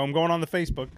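put-on joking old-man line. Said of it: "I always say as a joke".

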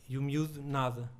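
steady literary reading aloud; story reading. A narrator's reading. Author reading his story aloud to an audience, steady narration.

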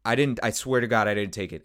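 re-enacted panicky denial; retold panic. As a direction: plead innocence, mildly flustered. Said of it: "And I was panicking".

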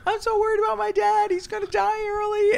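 hammed-up worried daughter; mock worried self. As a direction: whine it like an anxious kid. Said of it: "I go".

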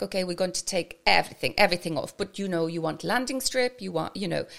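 lightly imitated South American waxer; attempted South American accent. Waxer offering options to client, rough South American accent. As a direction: try a half-hearted South American accent. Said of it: "this is my South American accent".

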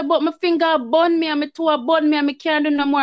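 half-sob your way through the excuses; retold complaint. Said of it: "and me still a complain".

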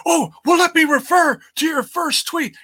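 high nasal-free mock of an online heckler; mocking the troll. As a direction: squeak out the troll's smug comeback. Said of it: "the troll's retort, quoted".

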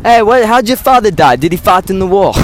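high, loud, eager questioner; curious questioner. Acted. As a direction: pitch it up like someone butting in with a question. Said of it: "some people may ask".

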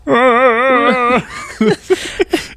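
long, high zombie groan; imitated zombie noise. All you hear is him coming in, mock zombie groan. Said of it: "all you hear is".

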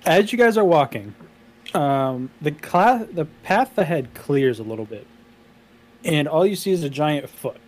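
measured, calm campfire storyteller; fireside storytelling. Acted. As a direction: set the scene like a tale by the fire. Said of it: "your best storyteller voice".

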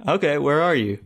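lightly voiced cartoon villain; a hint of a villain taking a call; Gargamel. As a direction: play the cartoon baddie lightly. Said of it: "my award-winning Gargamel imp-, impression".

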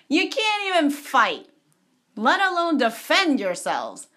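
mildly hammed-up taunt; rude challenger. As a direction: goad them rudely. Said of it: "this guy's rude".

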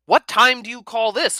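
loud, angry dad scolding; late-home son gets a loud telling-off; growling father. A narrator's reading. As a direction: bark it as the fed-up father. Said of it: "growled Jack's father".

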